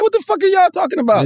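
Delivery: high-pitched mock bafflement; baffled aliens. Aliens baffled by human race talk, in high mock confusion.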